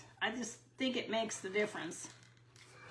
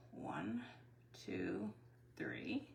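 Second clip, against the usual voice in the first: whisper; 14 semitones lower, 12 dB quieter, much slower than usual. Real, not acted. Counting quietly to herself.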